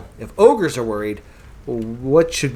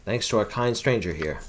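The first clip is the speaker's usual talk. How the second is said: put-on old wizard; 6 semitones lower, 8 dB quieter than usual. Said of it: "German says".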